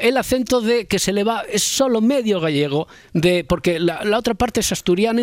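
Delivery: high-pitched mock half-Galician, half-Asturian accent; Laura Martínez. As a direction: imitate a colleague's half-Galician lilt while explaining it. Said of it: "estoy imitando".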